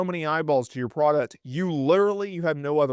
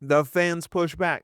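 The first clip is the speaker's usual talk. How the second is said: ordinary talk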